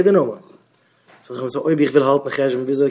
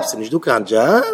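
quick, lower echo with a questioning rise; mock questioning; 4 semitones lower, much faster than usual. Speaker queries the jobless man's excuse, mock questioning. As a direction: toss it back fast and low as a question.

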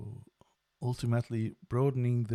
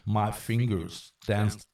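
lively storyteller narration; story narration. Acted. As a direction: narrate the tale with growing triumph.

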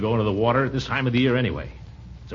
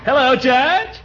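ingratiating; 9 semitones higher than usual. Acted. Buttering up judge on phone.

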